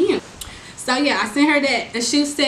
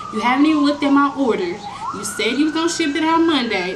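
louder and higher, accusing; fed-up confrontation; 3 semitones higher, 3 dB louder than usual. Real, not acted. Customer confronting the stole seller a week before graduation, angry. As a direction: push back hard, calling out the lie.

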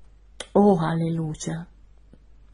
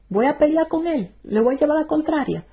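pitched up, asking in disbelief; raised pitch, incredulous questions; high rhetorical protest; 7 semitones higher than usual. Real, not acted. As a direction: protest high against the Lord.

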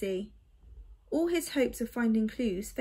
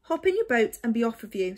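brisk; 4 dB louder, faster than usual. Acted. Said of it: "said the albatross".

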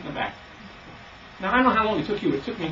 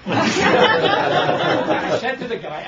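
laughing; 9 semitones higher, 6 dB louder, much slower than usual. Real, not acted. Laughs at his own story.

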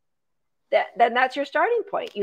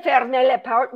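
French phrase in an English speaker's accent; half-effort French accent; poor French accent; 3 semitones higher, 5 dB louder than usual. Shown as a demonstration. Dog trainer giving viewers an example, poor French accent. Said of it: "didn't make a good effort there in my French".

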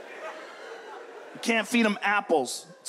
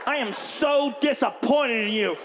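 disappointed owner; 2 semitones higher than usual. Acted. Owner scolding the guilty dog.

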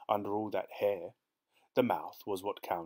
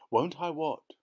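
higher, louder puzzled question; startled query, pitched up; 8 semitones higher, 5 dB louder than usual. A narrator's reading. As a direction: ask back, taken aback. Wife questions husband, startled.

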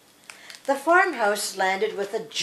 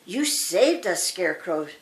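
mild relieved sigh. Acted. Dorothy thanks Scarecrow after the crows leave, gently sighing. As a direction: let it sink down in relief. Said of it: "sighed Dorothy".

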